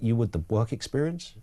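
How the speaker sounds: tentative question, voice rising at the end; puzzled query. Acted. Colleague querying a complainer about a missed gig, puzzled. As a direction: gently query it, low and hesitant.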